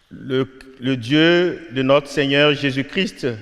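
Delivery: slow, formal priestly delivery; solemn liturgical proclamation. Real, not acted. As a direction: proclaim the rite slowly.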